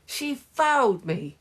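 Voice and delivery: high-pitched protest; screeched. A narrator's reading. Henry appealing against a foul, high screech. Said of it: "screeched Henry".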